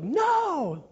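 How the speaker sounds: high imitated cry of protest; protesting onlookers. Crowd sees leaders punished instead, high protesting cry.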